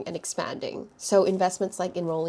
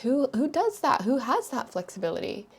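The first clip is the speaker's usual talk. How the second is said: shocked disbelief; 4 semitones higher than usual. Retold or imitated. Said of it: "she was so shocked by it".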